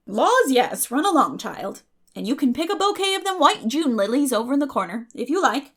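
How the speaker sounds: put-on loud, bluff older neighbour; a brisk country woman sending the child off; hearty Mrs Lynde. A narrator's reading. Mrs Lynde answers Anne.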